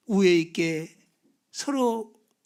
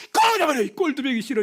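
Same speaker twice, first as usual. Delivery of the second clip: mock backhand insult; 4 semitones higher than usual. Shown as a demonstration. Preacher demonstrating a right-cheek slap, a mock yell. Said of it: "이렇게 때릴 때 오른뺨이 맞는 거예요".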